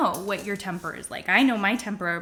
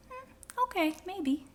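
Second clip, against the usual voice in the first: sceptical hmm; 10 semitones higher, 6 dB quieter, slower than usual. Acted. Sceptical reply to the denial.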